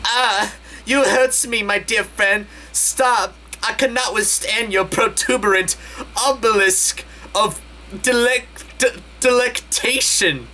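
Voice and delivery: high, hammed-up anguished cry; mock screaming. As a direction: wail it like a pained tubby. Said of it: "Tinky Winky screams".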